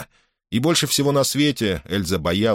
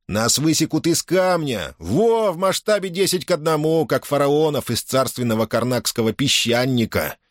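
booming pharaoh; 6 semitones higher than usual. A narrator's reading. Хохочущие пилоты фантазируют.

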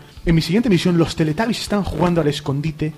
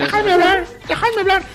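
mock protest; 12 semitones higher than usual. Real, not acted. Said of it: "demanding to speak".

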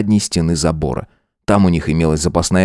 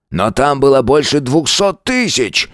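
mild gasp of shock; 7 semitones higher than usual. A narrator's reading. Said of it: "ахнул он".

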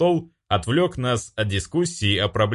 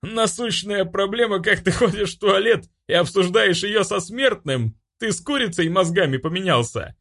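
mocking demon; 10 semitones higher than usual. Demon mocks angel, high voice.

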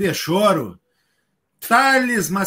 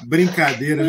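laughing; 5 semitones lower than usual. Real, not acted. Laughing after teasing joke.

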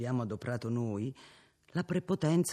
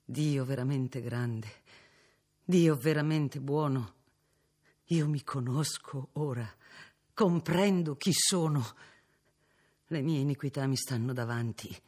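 moved exclamation; 3 semitones higher than usual. Acted. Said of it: "esclamò".

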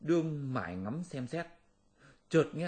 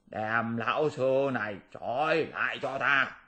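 barked order; 3 dB louder than usual. Acted. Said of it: "nó quát sai bọn Tiểu Yêu".

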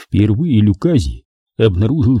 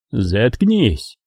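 curt command. Acted. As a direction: cut him off curtly. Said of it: "коротко приказал Болон".

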